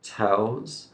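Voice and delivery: Tells drawn out, clear opening T; slow and careful. Shown as a demonstration. Teacher drills three T sounds, slow careful delivery. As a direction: stretch out Tells as a careful model. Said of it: "You can go slowly here".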